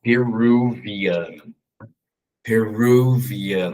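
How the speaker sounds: very slow, drawn-out "Peruvian"; slow careful teaching word; slow demo. Shown as a demonstration. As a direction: model "Peruvian" slowly for students. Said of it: "Quem nasce no Peru é".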